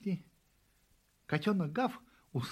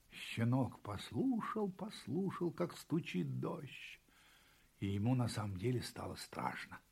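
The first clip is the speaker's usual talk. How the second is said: hushed storytelling; 4 semitones lower, 8 dB quieter than usual. A narrator's reading. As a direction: narrate softly as fear creeps in. Storyteller builds fear of rain. (тихий, таинственный рассказ)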